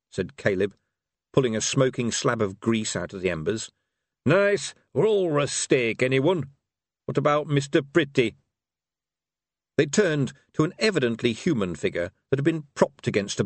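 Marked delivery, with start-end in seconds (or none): 4.2-8.4 put-on old barbarian voice. A narrator's reading. Caleb offering raw steak.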